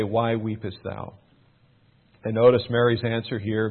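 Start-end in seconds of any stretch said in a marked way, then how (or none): 0.0-1.1 gentle rebuke. Retold or imitated. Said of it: "gently they, they say".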